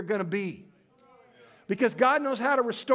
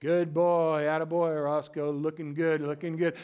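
soothing praise to dog; 5 semitones lower than usual. Retold or imitated. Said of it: "you gotta keep talking to him".

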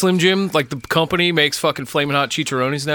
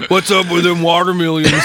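giggling through a silly explorer line; laughing mock explorer; 3 semitones higher, 4 dB louder than usual. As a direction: laugh while hamming it up.

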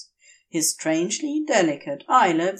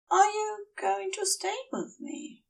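hopeful Aziraphale; 11 semitones higher, 5 dB quieter than usual. Acted. Aziraphale asks Crowley to stay.

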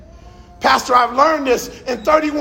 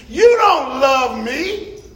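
bitter rebuke; slower than usual. Retold or imitated. Homeless man rebukes pastor.

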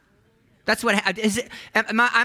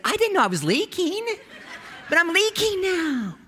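higher, laughing through the words; laughing disbelief. Retold or imitated. Pastor jokes to congregation about doctor's news, laughing. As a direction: crack himself up at the absurdity. Joking about being told he's leaking.

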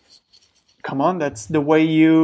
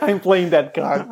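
laughing; 2 semitones higher than usual. Real, not acted. Teasing about accent.

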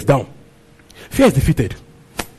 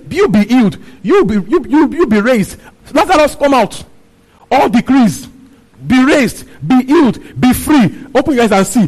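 commanding decree; 5 semitones higher than usual. Acted.

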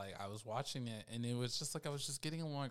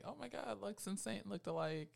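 mock fan gush; 8 semitones higher than usual. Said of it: "a lot of people were saying".

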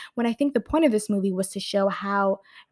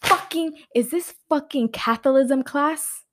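outraged disbelief; 4 semitones higher, 5 dB louder than usual. Retold or imitated. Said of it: "I was like".

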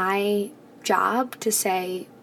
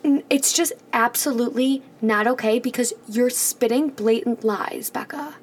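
mock outrage. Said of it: "Oscar-winning acting".

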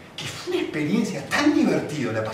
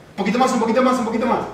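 coaxing; 6 semitones higher, 4 dB louder, faster than usual. Retold or imitated. Father coaxing his tired son.

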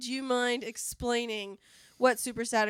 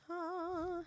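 soft, high contented "ah"; contented sigh; 7 semitones higher, 13 dB quieter than usual. Acted. Mother with the house to herself, contented sigh. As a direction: sigh softly as if enjoying a lie-in. Acts mother enjoying a lie-in.

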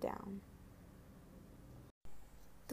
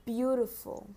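dictating. Shown as a demonstration. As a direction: say it clearly for children to write. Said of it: "I will repeat each word two times".

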